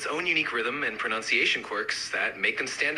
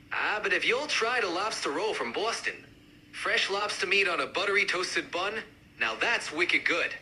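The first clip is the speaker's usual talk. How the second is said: more pronounced Boston accent; amped-up Boston accent. Shown as a demonstration. Lobster roll fan joining the debate, amped-up Boston accent. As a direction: push the Boston sound. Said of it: "really amp up the accents".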